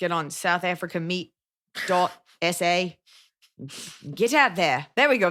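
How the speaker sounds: put-on Australian accent. Giving dating advice while putting on an Australian accent. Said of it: "I've been doing Australian".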